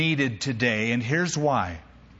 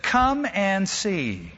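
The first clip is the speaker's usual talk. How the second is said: slow invitation; 4 semitones higher, much slower than usual. Acted. Philip inviting Nathanael.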